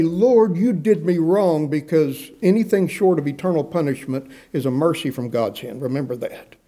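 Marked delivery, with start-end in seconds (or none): 0.0-1.7 mock accusing God. Preacher warning the flock, mock angry complaint at God. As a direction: throw the words up like a shaken fist. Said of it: "We should never say".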